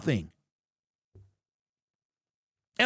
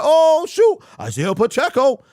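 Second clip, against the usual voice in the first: a mocking squeal of fake thrill, higher and louder; mock excited fan; 5 semitones higher, 5 dB louder than usual. Mocking fans gushing to chat, hammed-up squeal. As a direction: imitate fans gushing over a signing. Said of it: "they're like".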